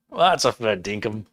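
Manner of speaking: lightly put-on Aussie; Australian accent. Host using his few bits of Australian, mock accent. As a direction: try a bit of mock Australian. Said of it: "I just know little bits".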